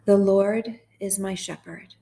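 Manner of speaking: slow, measured psalm reading with long pauses; guided meditation. Acted. Host leading sad listeners through Psalm twenty-three, slow guided meditation. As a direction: read gently line by line, leaving space to repeat.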